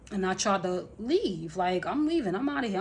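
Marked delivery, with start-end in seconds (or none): 1.9-2.8 defiant announcement. Retold or imitated. Retold walking out of quarrel.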